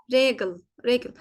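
"Regal, regal" ending in a reduced ıl; German pronunciation demo. Shown as a demonstration. Teacher models for learners, "Regal, regal" with ıl ending. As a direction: say "Regal, regal" as RE-gıl, twice. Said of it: "ıl diye okunuyor".

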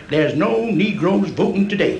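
slowed down like a newspaper headline; slow headline read. Retold or imitated. Voter reads the trooper's newspaper headline, slow and deliberate. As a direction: spell out the headline slowly. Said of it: "the headlines are".

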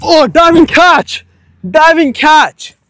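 excited announcing. Real, not acted. Announcing a catch.

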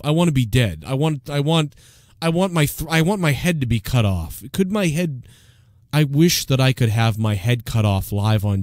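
mildly voiced hopeless rambler; a hint of mock despondency; Opie. Opie wishing aloud for his end, understated mock despair. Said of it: "back to Opie".

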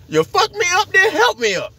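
high, whiny beaten fighter. Retold or imitated. The beaten boxer thanking Mike, high and whiny. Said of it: "That motherfucker was like".

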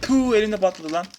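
high, loud startled outcry; loud high shock; startled exclaim. Real, not acted. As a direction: cry out as it blows up. Grenade explodes in hand.

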